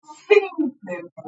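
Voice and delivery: "simplemente" said slowly and clearly; slow pronunciation. Shown as a demonstration. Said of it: "Yo la pronuncio". ("simplemente" pronunciado despacio)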